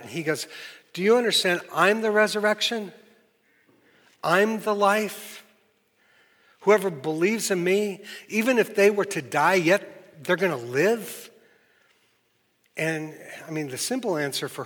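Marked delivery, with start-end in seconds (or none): 0.9-11.3 raised, emphatic voice, slowing on the key phrases; insistent Jesus. Retold or imitated. Jesus to grieving Martha, raised and emphatic. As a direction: proclaim it like Jesus pressing the point home.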